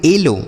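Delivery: "एलो" ending in a long o; ow read as o. Shown as a demonstration. Teacher shows the exception, "एलो" ending in o. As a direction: model "एलो" with o, avoiding au. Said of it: "तो इसे पढ़ेंगे".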